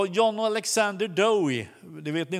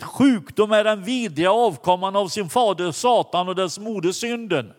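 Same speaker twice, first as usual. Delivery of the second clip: preaching declaration; 4 dB louder than usual. Retold or imitated. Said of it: "myntade det här uttrycket".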